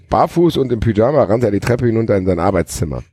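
even read-aloud delivery; story narration. A narrator's reading. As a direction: narrate the action like an audiobook. Reads a novel aloud.

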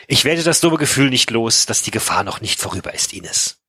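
measured audiobook-style reading; storyteller reading prose and dialogue; story narration. A narrator's reading. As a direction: read the novel aloud, shaping each sentence. Reads a novel aloud.

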